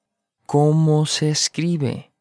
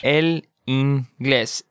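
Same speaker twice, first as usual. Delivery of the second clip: slow model; much slower than usual. Shown as a demonstration. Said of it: "slow model".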